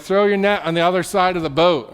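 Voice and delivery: Jesus calling from shore to the boat, loud. Acted. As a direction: call the instruction out to the boat.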